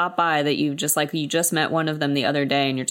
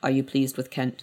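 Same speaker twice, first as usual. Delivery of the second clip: put-on cold, icy voice, much lower in pitch; 2 semitones lower, 4 dB quieter than usual. Recapping a scene, acting out a man's line to a woman, retelling a cold voice. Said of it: "says in a cold voice".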